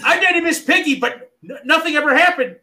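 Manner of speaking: high froggy puppet voice, laughing; high croaky frog character; Kermit the Frog voice. Pretend. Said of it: "my Kermit the Frog voice".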